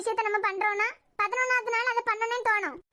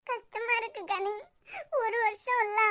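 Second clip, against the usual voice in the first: crying softly; 4 dB quieter than usual. Acted. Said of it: "நீ அழுற பத்தியா?".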